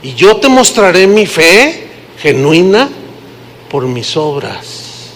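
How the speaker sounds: lightly voiced challenger, slow on muéstrame; a hint of a skeptic throwing down a dare; mild mock challenge, slowed down; quoted objector. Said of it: "Pero alguno dirá".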